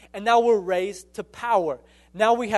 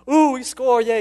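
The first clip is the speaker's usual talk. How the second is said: mock fan cheer; 4 semitones higher, 5 dB louder than usual. Sports fan cheering at home.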